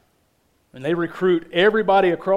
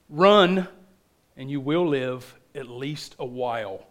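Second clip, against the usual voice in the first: battle speech dropping low and soft; measured warning to the troops; William Wallace; 4 semitones lower, 3 dB quieter than usual. Acted. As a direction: punch "Run", then quietly trail down. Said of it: "William Wallace says".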